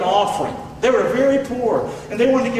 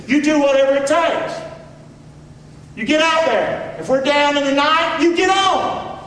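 lightly voiced demanding coach, building higher; hard-driving coach; 4 semitones higher than usual. Preacher voicing his old coach urging players on, demanding. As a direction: push the player on, pitch climbing to the end. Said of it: "That was my coach's attitude".

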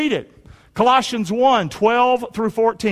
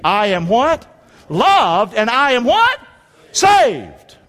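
excited call and response; 4 semitones higher, 5 dB louder, much slower than usual. Real, not acted. Preacher reviewing with congregation, excited call and response. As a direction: let the voice jump up with excitement. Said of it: "you might hear my voice go up because I get excited".

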